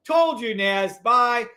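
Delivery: slow, gloating emphasis; told you. Real, not acted. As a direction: rub it in, word by word. Bragging about correct calls.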